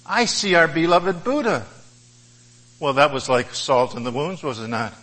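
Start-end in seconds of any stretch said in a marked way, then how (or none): 0.0-1.7 genteel and kindly. Acted. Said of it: "in a very genteel and kindly fashion".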